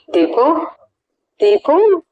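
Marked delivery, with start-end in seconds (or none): 1.4-2.0 sharp, much higher startled question; stunned surprise. A narrator's reading. Ramya, hearing her father's voice on the phone, startled and incredulous. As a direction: gasp the name in disbelief. Stunned daughter repeats the name.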